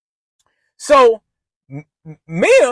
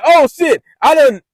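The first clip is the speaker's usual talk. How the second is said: mock panic; 3 semitones higher, 4 dB louder than usual. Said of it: "but I'm like".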